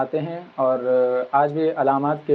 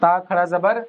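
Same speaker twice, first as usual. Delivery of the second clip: teacher spelling out the long a, very slow; slow syllable-by-syllable recitation; slow drawn-out drill; slower than usual. Shown as a demonstration. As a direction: stretch the vowels of با and تا slowly. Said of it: "یا تک لے جا سکتے ہیں".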